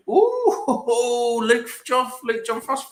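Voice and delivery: high, slow, sing-song teasing; mock sass. Calling out a cheeky viewer in a high, slow mock sass. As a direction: play up the sass in a put-on voice. Reacting to a sassy chat message.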